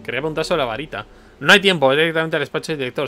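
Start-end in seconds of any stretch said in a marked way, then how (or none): 1.4-3.1 loud, pushy order to get moving; bossy hurry. Acted. Boss hurrying the new janitor along, loud and pushy. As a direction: shove him off to the office.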